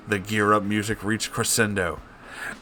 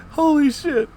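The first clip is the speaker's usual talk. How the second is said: laughing; 10 dB louder, much slower than usual. Real, not acted. Cracks up at name.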